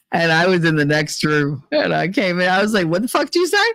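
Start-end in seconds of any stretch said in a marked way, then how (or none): 2.9-3.7 higher, confronting the teacher; storming in on the teacher; retold angry challenge.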